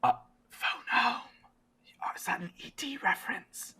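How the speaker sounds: high, whispery character voice; puzzled game character. Acted. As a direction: ask in a soft, airy whisper. Game master voices cave character.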